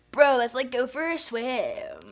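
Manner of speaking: a laid-back surfer bro, stretching out the end; surfer dude. Acted. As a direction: drawl it like a beach bum inviting a friend. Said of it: "the surfer one I do think is really funny".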